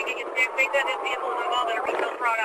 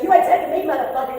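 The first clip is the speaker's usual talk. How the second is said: angry; 6 semitones higher, 3 dB louder than usual. Real, not acted. Woman defying police.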